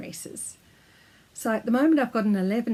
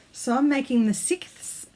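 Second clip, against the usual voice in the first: lisping through a retainer; words blurred by a retainer; wearing a retainer; 4 semitones higher than usual. Real, not acted. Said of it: "it's hard to say with my retainers in".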